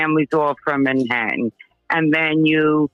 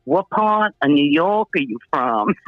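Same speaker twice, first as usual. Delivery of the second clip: imitated questioning; 3 semitones lower than usual. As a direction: stretch it out, imitating nosy strangers. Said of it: "but they go like this".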